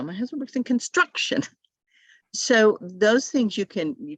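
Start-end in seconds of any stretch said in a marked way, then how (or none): 0.0-1.4 higher, careful My husband works in construction; student's corrected line. Retold or imitated. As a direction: proudly say it with the new stress. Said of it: "she says it right now".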